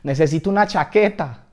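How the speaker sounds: loud cry for help; acted shout for rescue; shouted plea. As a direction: yell desperately to anyone around. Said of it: "Entonces grité".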